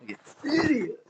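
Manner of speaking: high mocking voice. Real, not acted. Repeats own insult in a high voice.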